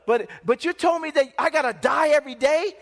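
disbelieving, rising question; acted incredulity. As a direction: play a convert taken aback. Convert balks at the cost.

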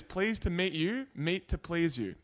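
slow, lilting slogan read. Shown as a demonstration. Reading the town's meat slogan like an ad. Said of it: "Slogan is".

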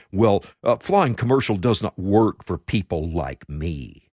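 lightly imitating a self-important politician; a hint of lofty arrogance; pompous John Kerry. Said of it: "in his pompous voice".

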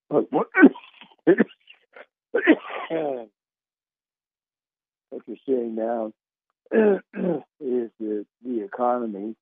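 throat catching, coughing mid-sentence; frog in throat. Real, not acted. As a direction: push words past a scratchy throat. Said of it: "I've got this frog in my throat".

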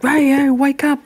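high, hurried, urging her awake; urgent wake-up call. Retold or imitated. Boyfriend rushing in to wake her: urgent and high. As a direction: shake her awake with your voice. Partner bursting in, waking her.

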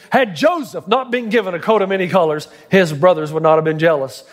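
rhythmic, chanting build of a fiery preacher; authoritative preacher. Retold or imitated. Pastor imitating a fiery preacher's chain of Joseph's misfortunes, authoritative and rhythmic. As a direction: imitate a fiery pastor's driving, repeating cadence. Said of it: "he's got this authoritative voice".

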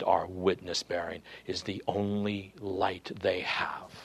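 quiet pulpit entreaty; hushed earnest appeal. Real, not acted. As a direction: bring it down to a tender hush. Preacher dropping to intimate appeal.

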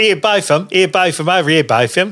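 put-on a light Cockney accent, half-hearted; mock Cockney. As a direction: jokily do a light Cockney mate calling out. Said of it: "Cockney up your accent".

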